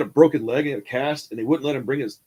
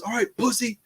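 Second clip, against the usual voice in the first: mocking cop; 9 semitones higher than usual. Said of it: "he screams at me".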